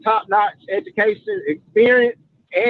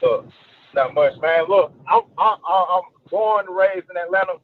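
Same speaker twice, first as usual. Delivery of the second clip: distant speakerphone sound; 4 semitones lower than usual. Real, not acted. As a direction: far from the phone. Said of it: "you sound like you're on speakerphone".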